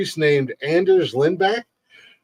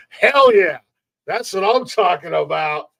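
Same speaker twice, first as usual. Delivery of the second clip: excited; 4 semitones higher than usual. Real, not acted. Cheering the prison hotel.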